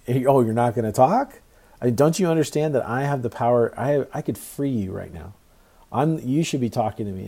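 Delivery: acted-out frustration, pressing for an answer; frustrated Pilate. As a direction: imitate an official losing patience with a silent prisoner. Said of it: "Pilate's getting frustrated".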